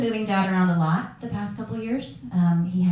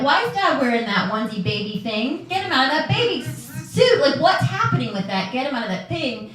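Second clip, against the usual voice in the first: upset demand; 5 semitones higher, 3 dB louder than usual. Retold or imitated. Upset confronting nurse over dad.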